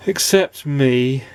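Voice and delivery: slow, tearful mumble. Acted. A lost nobody confessing to Mister Happy, slow and tearful. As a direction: hold back tears, drawn out. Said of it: "started to cry more".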